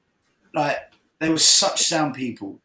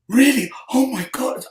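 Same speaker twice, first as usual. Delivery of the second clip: excited disbelief; 9 semitones higher than usual. Retold or imitated. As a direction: squeal it like she can't believe it.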